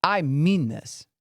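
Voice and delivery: firm authority. Shown as a demonstration. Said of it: "you come up in your tone".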